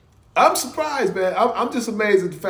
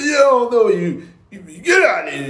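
imitating old Alan yelling at the young tenants; loud, heated retold shouting; mock angry yell; 4 dB louder than usual. Recalling angry old neighbor Alan yelling at young tenants, mock yell. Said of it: "He's like".

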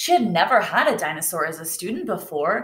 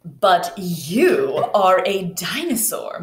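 pointing out; 3 dB louder, slower than usual. Acted. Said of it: "Madame Loisel pointed out".

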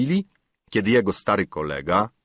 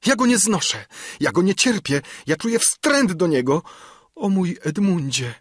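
high-pitched, distraught outburst; violent sobbing; 11 semitones higher, 3 dB louder than usual. A narrator's reading. Albertyna rejects the suitor for Edmund, distraught. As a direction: wail in acted anguish. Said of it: "łkając gwałtownie".

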